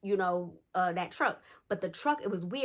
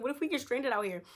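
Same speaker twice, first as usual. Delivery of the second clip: higher-pitched mock worry; imitated freak-out; 5 semitones higher than usual. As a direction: imitate a friend fretting aloud. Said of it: "now she's freaking out".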